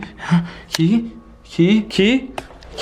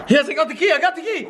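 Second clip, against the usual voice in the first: triumphant cry; 4 semitones higher than usual. Acted. Triumph at getting key.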